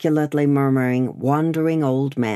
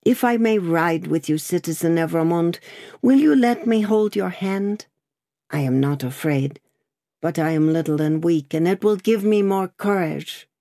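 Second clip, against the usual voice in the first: put-on a frightened girl trying to be brave; frail pleading girl; 2 semitones higher than usual. Seamstress asks to hold hand.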